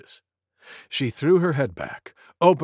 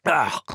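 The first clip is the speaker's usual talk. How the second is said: relieved sigh. Acted. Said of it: "that felt good".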